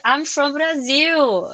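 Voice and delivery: slow, drawn-out English with a proud Brazilian lilt; proud Brazilian accent. Retold or imitated. Telling the host how she introduces herself, proud slow Brazilian accent. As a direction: savour every word, proudly foreign. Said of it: "O sotaque brasileiro".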